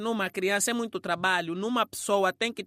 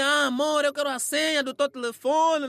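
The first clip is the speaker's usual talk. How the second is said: louder, wheedling "amor"; pleading girlfriend; 3 semitones higher, 4 dB louder than usual. Retold or imitated. Girlfriend begging boyfriend for his phone password. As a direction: coax him for the password. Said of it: "hábito de algumas mulheres".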